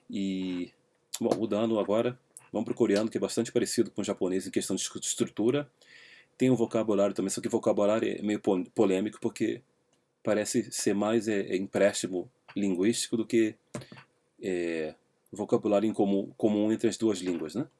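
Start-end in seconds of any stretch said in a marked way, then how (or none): none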